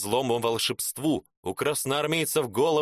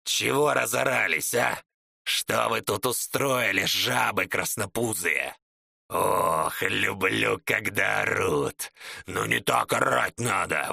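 growling brute; 2 semitones lower than usual. Acted. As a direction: growl like a cruel giant toying with prey. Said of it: "прорычал Чернолицый".

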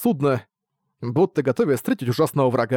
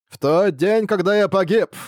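sinister, gleeful ghostly boom; booming echoing villain monologue; 6 semitones higher than usual. A narrator's reading. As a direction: ring out from the fog with dark glee. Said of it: "зловещий голос, ... нотка радости". (зловещий гулкий голос с ноткой радости)

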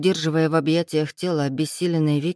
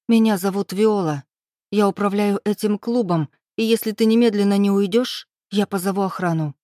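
louder, higher firm voice; cold threat; 3 semitones higher, 3 dB louder than usual. Acted. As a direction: threaten him steadily. Heroine threatens to call security. (героиня грозит охраной: твёрдо, громко)

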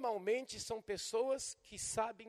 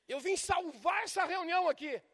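mock grandiose, higher and louder; puffed-up voice; 6 semitones higher, 6 dB louder than usual. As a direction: swell up like a self-important preacher. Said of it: "o cara muda a voz quando ele quer ficar grande". (voz empolada de quem quer ficar grande)

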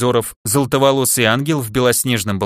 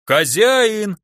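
high drawn-out holler; крик полуорка; 8 semitones higher than usual. A narrator's reading. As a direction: holler for the boss across the yard. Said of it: "вновь заорал полуголый зелёный серк". (протяжный высокий крик)

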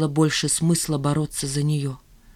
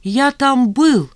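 gleeful boast; 7 semitones higher, 6 dB louder, much slower than usual. A narrator's reading. Marat gleefully confesses.

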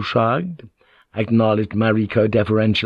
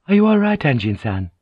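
apprehensive; 5 semitones higher than usual. A narrator's reading. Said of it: "apprehensive at the look".

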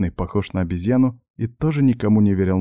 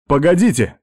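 louder, higher cry to stop them; desperate shout; 7 semitones higher, 5 dB louder than usual. Acted. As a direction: shout after fading voices. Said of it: "отчаянно закричал я".

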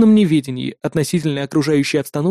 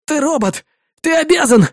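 demanding shout; 9 semitones higher than usual. Acted. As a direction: insist he must obey. Soldier demands help.

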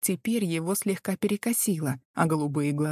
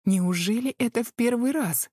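higher, seductive faux innocence; coquettish; 6 semitones higher than usual. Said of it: "вид поневиннее и пособлазнительнее".

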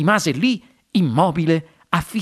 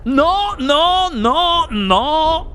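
high, urgent repeated cries; alarmed yell; 9 semitones higher, much slower than usual. A narrator's reading. Wonka tries to stop the running boy, alarmed yell. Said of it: "urlò il signor Wonka".

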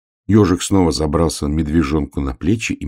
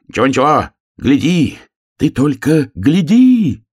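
hedgehog shouting; 10 semitones higher, 7 dB louder than usual. Acted. Hedgehog shouts to the bear cub to look at the earth, high and loud. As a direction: urge him to look, at full voice. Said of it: "кричал ежик".

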